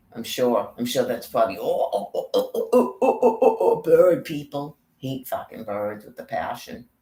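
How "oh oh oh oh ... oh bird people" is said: high, loud squawking chant of "oh"; bird-person cry, hammed up; mock bird squawk. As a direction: caw like a frantic bird-creature. Imitating bird people squawking.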